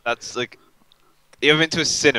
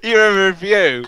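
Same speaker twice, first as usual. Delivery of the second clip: high, slow disbelieving exclaim; laughing disbelief at the review story; incredulous; 11 semitones higher, 8 dB louder, slower than usual. Real, not acted. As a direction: stretch it out in shocked disbelief.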